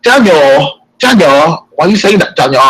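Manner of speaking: imitating Claire. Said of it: "I can talk like Claire".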